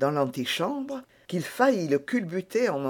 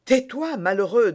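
urgent hush; 7 semitones higher, 5 dB louder than usual. A narrator's reading. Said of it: "dit le jeune homme".

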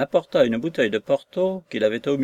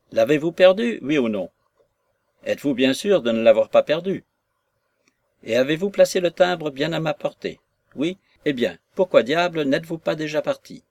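fussy, louder, nagging commands; irritated; 3 semitones higher, 4 dB louder than usual. Acted. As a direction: scold the servant peevishly. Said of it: "d'un air contrarié".

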